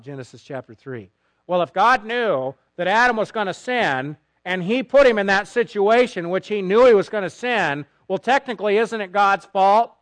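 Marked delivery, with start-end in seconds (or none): 1.5-9.9 a hint of a whiny, smug argument; mocking objection. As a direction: lightly send up the blaming critic. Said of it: "I've heard people say that".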